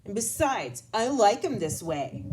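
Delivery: mock-huffy boy insisting. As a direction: huff it out stubbornly. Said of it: "he said huffily".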